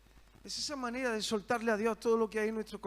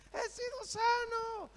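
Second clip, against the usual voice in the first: higher, slow, jubilant call; excited shout; slower than usual. Retold or imitated. Healed leper shouting to everyone, jubilant call. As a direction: cry it out in joy. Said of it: "salió de allí dando voces".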